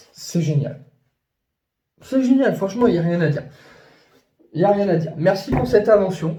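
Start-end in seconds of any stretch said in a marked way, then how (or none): 2.0-6.4 a bit higher, eager praise; enthousiaste. Real, not acted. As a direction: gush with gratitude. Excited thanks. (remerciement enthousiaste)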